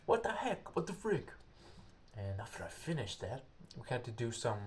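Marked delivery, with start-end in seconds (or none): 0.1-1.3 inner outburst. Retold or imitated. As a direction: squeal it in shock, then calm down. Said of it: "in myself I was like".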